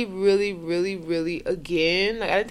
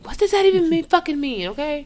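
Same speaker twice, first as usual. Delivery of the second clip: indignant; 8 semitones higher, 5 dB louder than usual. Real, not acted. Fed-up rant after quote.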